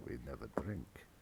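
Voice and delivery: very low, hushed vampire voice; whispered wine; vampire butler. Acted. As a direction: breathe the last word like a creepy servant. GM parodies vampire line.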